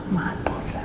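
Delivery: normal talking voice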